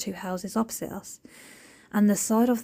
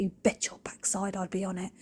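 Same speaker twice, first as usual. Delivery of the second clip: whispered vow; 6 dB quieter than usual. Real, not acted. Vowing she'd clean it.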